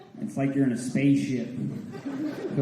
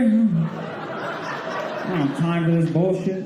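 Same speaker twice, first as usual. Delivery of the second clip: mock fed-up retort; much slower than usual. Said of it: "I was like".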